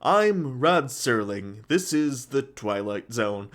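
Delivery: slow, measured mock narrator cadence; lightly voiced Serling, stretching each word; Rod Serling impersonation. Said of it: "talked like this as well".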